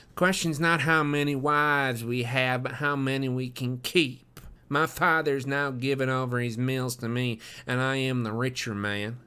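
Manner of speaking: lightly voiced cocky heir; boastful youth. Drebber voiced in dialogue.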